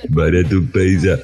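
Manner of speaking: lightly voiced hawker calling out wares; a hint of a Moroccan pedlar; mock street vendor. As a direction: imitate a street seller touting bargains.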